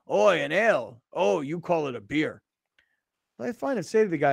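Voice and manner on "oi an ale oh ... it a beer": mock Australian. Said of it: "He's like".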